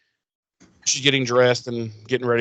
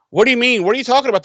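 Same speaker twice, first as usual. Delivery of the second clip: tag; 10 semitones higher, 4 dB louder, much faster than usual. Retold or imitated. Acting out Xander's protest.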